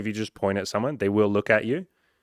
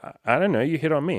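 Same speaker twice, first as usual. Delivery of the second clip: higher, louder mock-flustered woman; flustered girl voice; 7 semitones higher, 3 dB louder than usual. Coach voicing the woman he approached, flustered and pitched up. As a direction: play the confused girl, pitched up.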